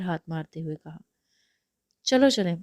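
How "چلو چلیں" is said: happy. Acted. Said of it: "خوش ہو کر کہا".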